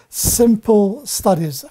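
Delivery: "simple" set apart and slowed down; stress on simple. Real, not acted. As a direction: lean slowly on the word "simple". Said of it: "I'm emphasizing the word simple".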